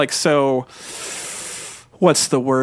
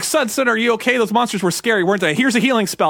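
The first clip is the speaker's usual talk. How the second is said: worried dad; 4 semitones higher than usual. Retold or imitated. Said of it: "he's like".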